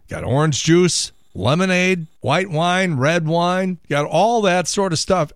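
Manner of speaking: ordinary talk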